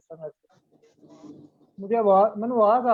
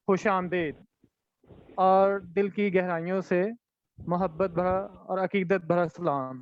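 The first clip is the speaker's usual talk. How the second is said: measured, ceremonious host's voice; formal announcement. Acted. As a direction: open the poetry evening formally. Formal mushaira hosting opening.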